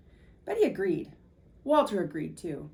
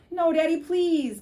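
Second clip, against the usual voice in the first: put-on high, loud, slow child's plea; children begging Father to keep the dog, high and pleading; 8 semitones higher, 7 dB louder, slower than usual. A narrator's reading. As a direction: plead with Daddy. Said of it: "begged Betty and Billy".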